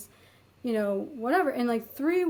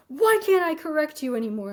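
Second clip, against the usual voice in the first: retold angry outburst; 4 semitones higher, 4 dB louder than usual. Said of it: "slams his hand on the de".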